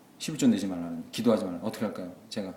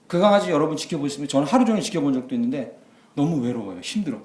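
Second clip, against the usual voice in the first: ordinary talk, nothing marked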